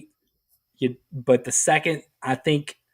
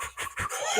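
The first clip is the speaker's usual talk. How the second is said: imitated huffing; 11 dB quieter than usual. Imitates ritual before farting.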